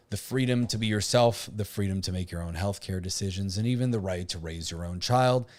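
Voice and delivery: deliberately monotone reading. Pretend. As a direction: read it out in a dull, even monotone. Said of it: "reading this in a monotone, uh, voice on purpose".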